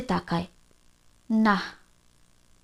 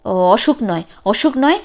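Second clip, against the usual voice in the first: agitated mother; 2 semitones lower, 4 dB louder than usual. Acted. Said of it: "ফের উগ্র হয়ে ওঠেন নীরজা".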